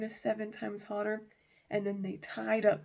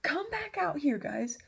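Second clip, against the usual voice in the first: calling out; 8 semitones higher than usual. Acted. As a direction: call to people inside a fire. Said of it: "he calls into the fire".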